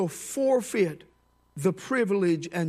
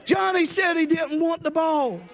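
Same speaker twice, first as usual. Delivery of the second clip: laughing at own joke; 7 semitones higher, 3 dB louder than usual. Real, not acted. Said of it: "repeats punchline laughing".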